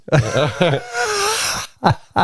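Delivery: a high, crying laugh; high laughing wail. Real, not acted. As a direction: laugh until it nearly turns to crying. Laughing at Irish ditch.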